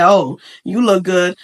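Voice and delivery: low, slow, dry compliment; unenthused tone. Shown as a demonstration. Showing how tone changes meaning, dry compliment. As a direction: say the praise low and slow, unimpressed. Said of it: "tone is everything".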